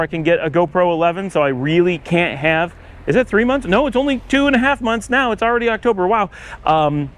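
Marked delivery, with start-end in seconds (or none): 3.1-6.3 surprised realization. Real, not acted. Surprised at how little time is left.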